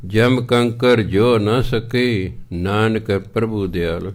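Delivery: slow, measured reading of the verse; scripture recitation. Acted. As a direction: intone each phrase slowly. (ਹੌਲੀ ਹੌਲੀ ਪਾਠ)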